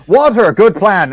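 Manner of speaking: high, loud burst of enthusiasm; eager agreement. Acted. Selkie eagerly taking up the water plan. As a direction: jump at the idea gladly. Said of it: "I did wa".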